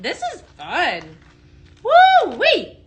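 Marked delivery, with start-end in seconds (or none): 1.8-2.8 high gleeful woo; excited whoop. Real, not acted. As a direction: let out a happy whoop. Excited whoop while blending.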